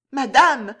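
high, loud, quavering call; a nervous maid's trembling plea. Acted. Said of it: "d'une voix tremblante".

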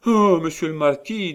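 high, loud alarmed plea; pleading wife. A narrator's reading. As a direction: beg him, frightened.

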